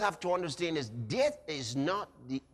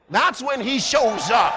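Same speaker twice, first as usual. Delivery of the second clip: booming preacher shout; sermon climax, loud proclaiming; 6 dB louder than usual. Real, not acted.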